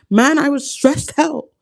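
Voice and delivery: slow, high, weary sigh of a thought; stressed inner groan. Retold or imitated. Thinking back on a stressful time, slow weary groan. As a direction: drag it out like you're worn out.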